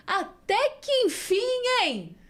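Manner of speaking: high, slow, breezy buddy greeting; casual Jesus. Retold or imitated. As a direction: greet her like an old friend who's been waiting. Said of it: "Que Jesus é esse que fala desse jeito?".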